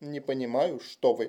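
plain reading voice

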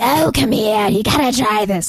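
rough, raspy cigar smoker's voice. Retelling a Victoria's Secret saleswoman pushing lotion on them: cigar voice. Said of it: "she had like one of those cigar voices".

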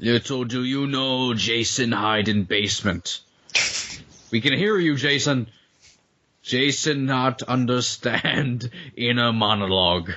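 put-on laid-on, broken-English European accent. Speaker voicing a hockey-masked Jason figure: Jason impression, increasingly European. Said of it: "your impression of Jason increasingly gets, like, European".

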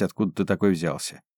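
plain reading voice

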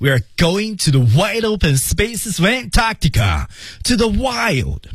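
very high, quick, hopeful, uplifted upswing in tone. Reading an English line after a subdued one, rising, hopeful tone. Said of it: "这句就是上扬啊".

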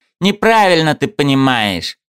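sharp, high-pitched snapping tone. Egor answers the narrator's cautious question, snapping back. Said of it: "огрызнулся Егор".

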